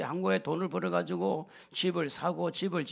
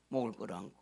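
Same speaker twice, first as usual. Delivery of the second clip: softly repeated; 8 semitones lower, 9 dB quieter, faster than usual. Real, not acted.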